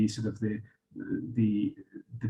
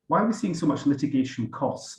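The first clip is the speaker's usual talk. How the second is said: costs given the weight of the question; stress on costs; 4 semitones higher than usual. Shown as a demonstration. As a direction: lean into the word costs. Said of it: "And I emphasize the word costs".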